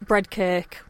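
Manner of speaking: bread cake with Hull vowels; Hull accent. Shown as a demonstration. Co-host showing the host Hull words, Hull accent. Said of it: "some more Hull words".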